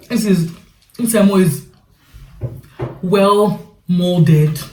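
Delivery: eating while talking; mouth full. Real, not acted. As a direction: talk through a mouthful. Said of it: "devouring this food".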